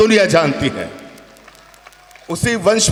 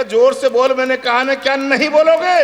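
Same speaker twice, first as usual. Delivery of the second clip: raised, insistent voice; loud demand; 4 semitones higher than usual. Retold or imitated. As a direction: demand it louder, like a half-deaf old man.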